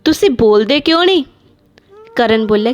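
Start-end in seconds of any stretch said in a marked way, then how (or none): 0.0-1.2 complaining wife. Acted. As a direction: nag your husband to get rid of her. Wife complains about mother-in-law.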